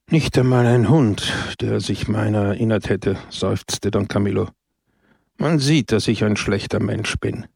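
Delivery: rueful understated sigh; mild sad lament; sighing self-pity. Acted.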